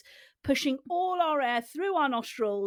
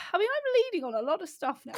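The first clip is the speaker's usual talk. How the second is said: imitating Ange; 4 semitones higher, faster than usual. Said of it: "Ange actually went like this".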